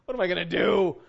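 high, loud laughing mock distress; hammed-up self-pity with a laugh; mock dismay. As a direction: wail over the broken iPad, laughing. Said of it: "I'm like".

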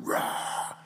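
whispered roar. Retold or imitated. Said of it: "the lion just going".

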